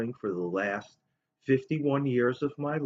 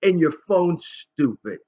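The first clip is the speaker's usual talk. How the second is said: lightly voiced child, higher and louder; a hint of a scornful little girl; mild mock kid insult; 7 semitones higher, 6 dB louder, slower than usual. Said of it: "and she says".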